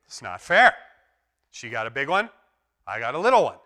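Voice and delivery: put-on loud child's protest about the smaller lollipop; whiny child. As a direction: sulk like a child shortchanged. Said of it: "the one kid ... says".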